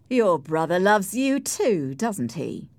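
mildly scornful taunt; a touch of contempt. Acted. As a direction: taunt her with a rhetorical question. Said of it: "Heathcliff said scornfully".

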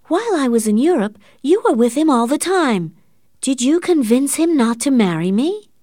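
high, loud accusing cry; shouting. A narrator's reading. Catherine accusing her aunt of turning Morris away, shouting. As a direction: let the suspicion burst out loud. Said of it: "shouted Catherine".

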